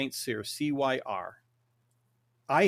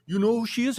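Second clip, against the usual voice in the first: higher, louder astonished question; surprised question; 10 semitones higher, 7 dB louder, faster than usual. Retold or imitated. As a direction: sound amazed that he knows. Girlfriend surprised he knows.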